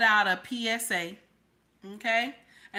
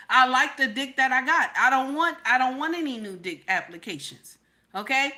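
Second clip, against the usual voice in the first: mock stern warning. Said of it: "This is how I was talking".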